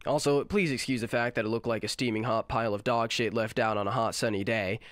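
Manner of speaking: blocked nose, nasal voice; talking through a cold, nasal; nasal sick voice. Real, not acted. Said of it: "hence the nasally voice".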